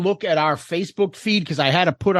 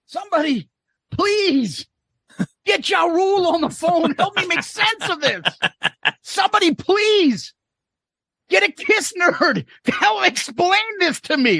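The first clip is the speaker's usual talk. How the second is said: high, pleading mock despair; mock desperate plea; 11 semitones higher than usual. Host begging for someone to explain the band's hype, high and pleading. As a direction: beg dramatically for help.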